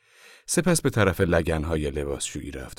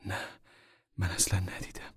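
embarrassed; 2 semitones higher than usual. A narrator's reading. Mother admits to the man she missed the sign, embarrassed. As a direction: answer with a touch of shame. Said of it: "مادر خجلت زده گفت".

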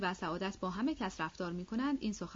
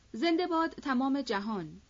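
higher-pitched, mildly raised cheer; crying out; 5 semitones higher, 4 dB louder than usual. A narrator's reading. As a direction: hail it like a toast, half-shouted. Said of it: "فریاد کشید". (فریاد شادباش، نه چندان بلند)

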